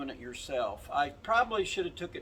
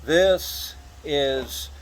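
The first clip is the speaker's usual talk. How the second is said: loud, raised voice outdoors; shouting over wind; 2 semitones lower, 3 dB louder than usual. Real, not acted. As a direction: project over the howling wind. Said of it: "hopefully you can hear me over the wind blowing".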